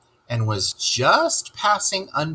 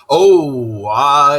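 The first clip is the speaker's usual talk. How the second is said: flustered; 2 semitones higher, 7 dB louder than usual. Acted. Toad caught out.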